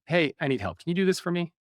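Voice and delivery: casual, breezy request for help; not really vulnerable. Shown as a demonstration. Example of asking somebody for help, not really vulnerable. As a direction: ask as if it costs nothing. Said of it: "not really vulnerable".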